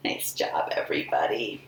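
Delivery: hushed whisper of praise; soft whispered praise. Real, not acted. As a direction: whisper it to the group. Praising the kids.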